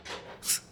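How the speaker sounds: breathy little chuckle; quiet huff of laughter; short laugh. Acted. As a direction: let out a soft, voiceless laugh. Laughs at companion's reply.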